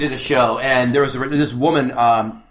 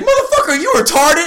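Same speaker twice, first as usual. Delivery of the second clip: put-on high, loud heckling voice with an Asian accent; Asian comic impression; 12 semitones higher, 4 dB louder than usual. Asian comic heckling the boy, accented. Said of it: "if you couldn't tell by my impression".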